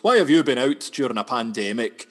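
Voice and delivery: loud accusing yell at the camera, half-mocking; retold journalist shout. Journalist confronting a lad back from a night out, loud mock yell. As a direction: bark the question at him like an outraged reporter. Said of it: "and he goes".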